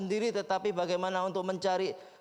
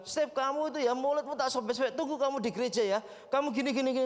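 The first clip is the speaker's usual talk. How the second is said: a touch of a mock angry caller, fast on the threat; 4 semitones higher, faster than usual. Angry man on the phone threatening the pastor, mildly acted. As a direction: retell the furious caller, lightly played. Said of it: "dia dengan marah".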